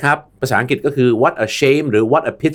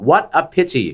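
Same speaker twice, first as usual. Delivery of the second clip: what a pity with stress on what and a falling end; with feeling; 3 semitones higher, much slower than usual. Shown as a demonstration. Host models for listeners, putting emotion into the phrase. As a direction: lean on what, let pity fall with regret. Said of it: "คุณผู้ฟังฟังดีๆ แล้วใส่อารมณ์".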